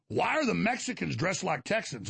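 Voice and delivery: baffled visitor imitation. Quotes baffled visiting New Yorkers.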